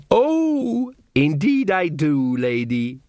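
slow, sneering elf voice; mocking elf. Elf taunting Magrat in the dark, slow and sneering. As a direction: taunt her lazily, savouring it.

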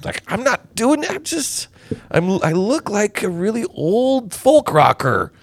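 lightly voiced high complaint; a hint of an aggrieved celebrity; mock a folk singer. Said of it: "He's like".

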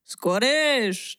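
drawn-out, hammed-up Scottish accent; Scottish accent attempt. Shown as a demonstration. Cohost asked to do Scottish, makes an attempt in a Scottish accent. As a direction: try a Scottish accent with a rolled R. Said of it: "they kinda roll their R's".

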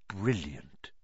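soft and low "Brilliant", almost to himself; softly. A narrator's reading. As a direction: murmur "Brilliant" in quiet admiration. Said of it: "he said softly".

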